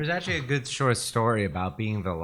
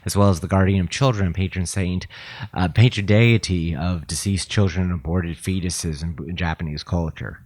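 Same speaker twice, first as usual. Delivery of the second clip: reading voice. Real, not acted. Reading a Bodhisattva entry aloud to a friend, reading voice. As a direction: read it out clearly for the listener. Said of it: "in your best reading voice".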